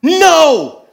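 put-on very high, loud, slow toddler outcry; little girl shrieking at a grass stain; toddler wail. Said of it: "looks at the grass and goes".

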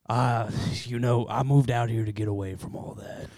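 world-weary gravelly growl. Pretend. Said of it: "gravelly voice".

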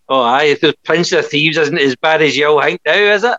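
mock-smug gloat, lifting high on the tag question. Film fan gloating to himself at the pictures, smug. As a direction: play up being smugly vindicated. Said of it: "all smug like that".

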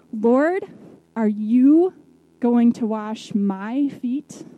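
indignant. Retold or imitated. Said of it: "Peter is indignant".

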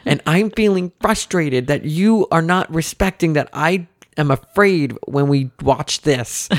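earnest daughter lecturing parent; kid counselor voice. Retold or imitated. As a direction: impersonate a little girl sounding like a counselor. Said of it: "this kid's like a counselor".

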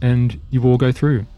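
measured game master narration; scene narration. Acted. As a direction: set the scene like a storyteller. GM sets the scene.

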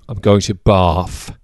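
Bath said as "Baf" in a light British accent, drawn out slowly; going to "Bath" like a Londoner, the th turned to f. Shown as a demonstration. Telling a friend about a trip in a put-on London accent. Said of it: "I said B A F there because in a British accent".

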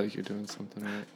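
breathy whisper, no voice. Real, not acted. Whispering back to his cohost after the proud dad story. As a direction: whisper it like a secret aside.

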